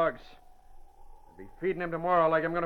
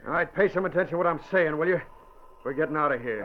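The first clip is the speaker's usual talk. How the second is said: harsh. Acted. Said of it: "spoke to him harshly".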